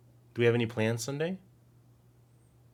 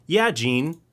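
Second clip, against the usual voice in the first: excited yelling; 3 semitones higher, 6 dB louder than usual. Real, not acted. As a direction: insist loudly about the movie. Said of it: "I'm sorry for yelling".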